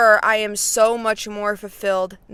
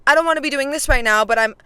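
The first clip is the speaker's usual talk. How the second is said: mock complaining; faster than usual. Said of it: "me complaining about something".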